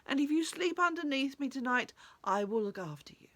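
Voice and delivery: mildly pained tree voice; suffering tree. Acted. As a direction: speak as the aching tree, easing toward the end. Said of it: "says the tree".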